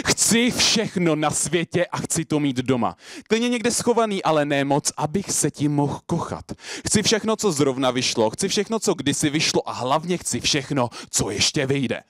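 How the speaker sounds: rhythmic slam recitation; measured but eager poetic build; slam poetry. Acted. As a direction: perform it to a crowd, pitch jumping up on new phrases. Performs slam poem on stage.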